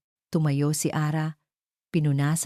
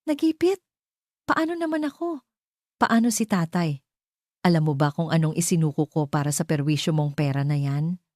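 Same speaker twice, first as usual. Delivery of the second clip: outraged. Acted. Furious niece confronts aunt.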